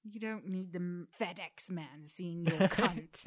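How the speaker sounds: loud, slow barked order; Ramsay scolding. Pretend. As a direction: boss them around like a furious chef. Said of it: "Gordon would probably tell me".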